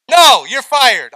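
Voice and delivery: hammed-up angry boss; mock boss shout. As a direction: play the boss, yelling and drawn out. Boss firing a napping employee.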